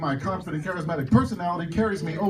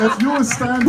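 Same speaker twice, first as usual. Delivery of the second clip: hammed-up German accent, a little higher; thick German accent; 4 semitones higher, 4 dB louder, slower than usual. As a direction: imitate a German woman's accent. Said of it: "with a very thick German accent".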